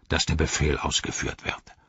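low, dismissive echo of a rival; Ugluk. Acted. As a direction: throw the words back with authority. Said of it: "sagte Ugluk".

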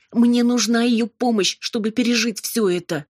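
high, slowed, insistent pleading; desperate plea. A narrator's reading. Robin begging the demon to spare Amalia, insistent.

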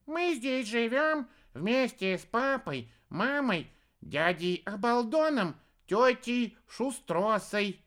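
put-on high, slow childish listing; squeaky cub. A narrator's reading. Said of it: "третий из невидимых детишек".

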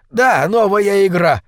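slow, high-pitched exclamation; eager cry; urgent call. A narrator's reading. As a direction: seize on the idea and call it out emphatically. Calls out to newcomers.

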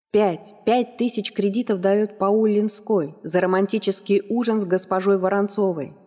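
ringmaster. Acted. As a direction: stretch every word to the crowd. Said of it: "словно объявлял выход бойцов на ринг".

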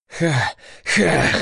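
heavy panting. A narrator's reading. Dex, spent from beating the floor, panting hard. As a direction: gasp for air after pounding the floor. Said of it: "Тяжело дышал он".

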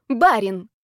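loud snapping retort; barked. Acted. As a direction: bark the word at her. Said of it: "рявкнула".

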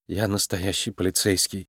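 dejected self-reassurance under the breath; weak mumble. A narrator's reading. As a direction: mumble it to yourself, beaten. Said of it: "слабо пробормотала она".

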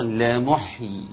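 لمحيي stopped slowly on a silent ي; pausal form demo. Shown as a demonstration. Teacher showing how to stop on لمحيي, slow. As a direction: draw out لمحيي and end on a silent ي. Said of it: "ولمحيي أيضًا".

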